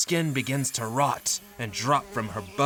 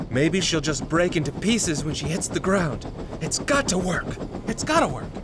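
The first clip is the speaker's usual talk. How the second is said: desperate hope; 5 semitones higher than usual. Acted. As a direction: pitch climbing as desperation builds. Husband schemes, desperate.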